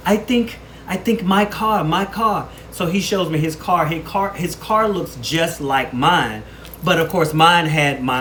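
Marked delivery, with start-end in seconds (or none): 0.1-2.5 mock Asian accent, pitched much higher; light Asian accent impression of a sorry stranger; imitated Asian accent. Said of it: "I just automatically go back to the accent".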